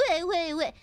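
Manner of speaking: mild mocking wah-wah; mock crying. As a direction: tease with a little fake cry. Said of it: "You'll stub your little birdie toe and go".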